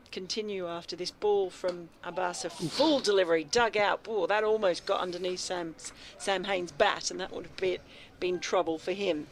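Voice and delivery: radio ball-by-ball call; cricket commentary. Acted. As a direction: call each delivery live.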